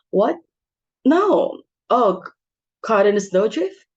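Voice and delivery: shocked dismay. Acted. Hostess hearing on the phone that a guest is snowed in, dismayed. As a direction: blurt out the shock, then keep pressing. Bad news over the telephone.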